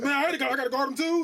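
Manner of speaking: mocking the center. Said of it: "He said".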